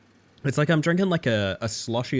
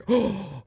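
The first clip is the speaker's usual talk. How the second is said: sharp, high intake of breath; excited gasp; 8 semitones higher than usual. Pretend. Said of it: "I got really excited".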